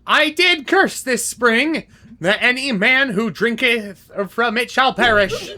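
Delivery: a hint of an evil old hag; evil villain monologue. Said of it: "Let me do my evil villain monologue".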